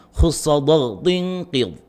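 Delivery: slow, distinct "khussa dha tinqid" with heavy back-of-tongue sounds; thick emphatic letters. Shown as a demonstration. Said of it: "Saya ulangi".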